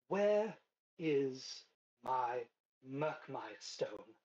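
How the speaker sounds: slow, deliberate demand, falling from high; lightly posh villainess interrogating a captive; high-class voice. Acted. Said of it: "high-class, uh, voice".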